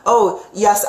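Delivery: normal talking voice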